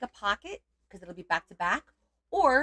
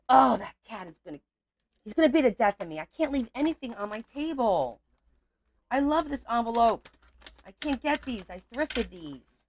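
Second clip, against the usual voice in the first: loud, high frustrated rant; exasperated venting; 5 semitones higher, 5 dB louder than usual. Real, not acted. Crafter venting to viewers about her cat, loud exasperation. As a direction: vent at the cat, fed up.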